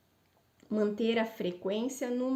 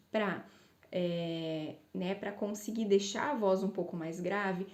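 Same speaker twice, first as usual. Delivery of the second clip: ordinary talk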